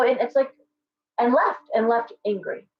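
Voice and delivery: ordinary talk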